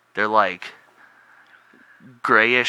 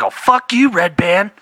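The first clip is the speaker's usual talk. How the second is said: much higher, loud yelling impression; William Montgomery yell; 10 semitones higher, 8 dB louder than usual. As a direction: belt it like a manic comic. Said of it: "when that dude yells".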